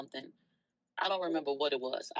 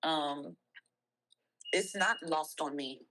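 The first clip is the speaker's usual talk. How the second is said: tearful. Real, not acted. Streamer thanking supporters, tearful and choked up. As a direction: voice catching on tears, barely holding it.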